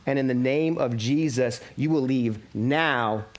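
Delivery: a slowed, hammed-up Pentecostal rebuke; commanding the spirit to leave, mock-fervent; full Pentecostal. Preacher retelling how he rebuked it at night, mock Pentecostal fervor. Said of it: "I go full Pentecostal".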